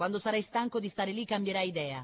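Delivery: yelling loudly. A father leans out a window, calling to his son in a tree, shouting. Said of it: "gli gridò".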